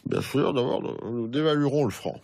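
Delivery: put-on old president's formal cadence; Giscard impression. Impressionist plays Giscard d'Estaing throughout.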